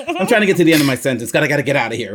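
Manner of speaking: fast, hurried mock panic; rushed panic. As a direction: race through it to escape the sentence. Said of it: "So you're like".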